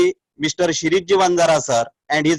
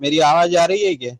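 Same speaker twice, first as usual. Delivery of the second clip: cut off mid word; much faster than usual. Real, not acted. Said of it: "sir, थोड़ा आवाज cut रहा है आपका".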